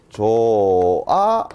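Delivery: 조아 said slowly, with no ㅎ sound; 조아 demonstrated slowly, without ㅎ; pronunciation demo. Shown as a demonstration. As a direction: model 조아 slowly as it is actually pronounced. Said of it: "요렇게 발음되죠".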